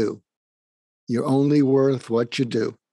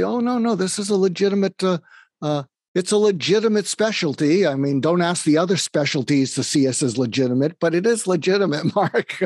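higher, bright reassuring voice ending in a laugh; cheerful psychiatrist; 5 semitones higher than usual. Retold or imitated. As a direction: brush off the doubt with a chuckle.

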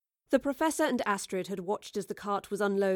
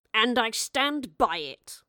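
smug; 3 semitones higher, 4 dB louder, much slower than usual. Acted. Charles doubles down smugly.

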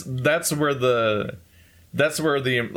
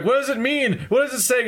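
pressing questions pitched way up; urgent high questioning; 13 semitones higher than usual. Retold or imitated. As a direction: demand an answer, anxious and high. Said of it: "And they're like".

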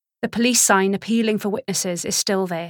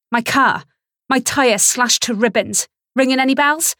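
loud, tight words through clenched teeth; forced out through gritted teeth; 4 semitones higher, 5 dB louder than usual. Acted. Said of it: "I say it through clenched teeth".

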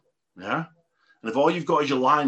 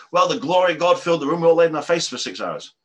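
gushing churchgoer; 4 semitones higher, 6 dB louder than usual. Retold or imitated. Churchgoer boasting to coworker.

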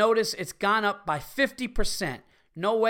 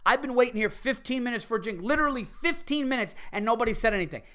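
higher, faster, fed-up complaint to the manager; exasperated complaint; 5 semitones higher, faster than usual. Retold or imitated. Irate customer telling the bar manager he's waited too long, exasperated. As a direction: spell out the wait, indignant. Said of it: "And I actually said it like that".

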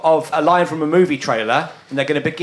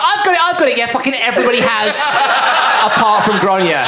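imitating excited blurt; 5 semitones higher, faster than usual. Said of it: "Ben immediately was like".

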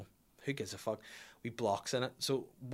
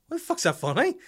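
indignant; 8 dB louder than usual. Retold or imitated. Indignant reply to laughing wife.

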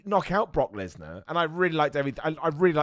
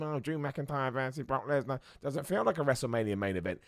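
mocking critic voice; 6 dB quieter than usual. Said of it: "I see the criticism".

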